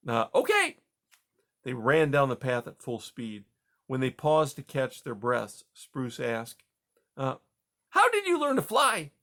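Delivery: fishing for praise; proud young mouse. Acted.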